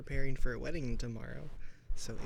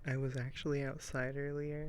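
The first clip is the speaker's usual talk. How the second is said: muffled. Real, not acted. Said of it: "probably sounds like I'm muffled".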